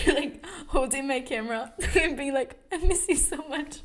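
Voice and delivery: laughing. Retold or imitated. Mocks herself missing camera.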